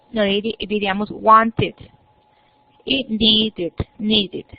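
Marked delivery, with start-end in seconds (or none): 1.1-1.8 wanted with the final -ed said as "id"; teacher's model word. Shown as a demonstration. Teacher models wanted for the students, clear pronunciation. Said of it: "Por ejemplo". 3.0-4.5 needed with a clear "id" ending, said twice; teacher's model word. Shown as a demonstration. Teacher models needed for the students, clear pronunciation. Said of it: "Por ejemplo".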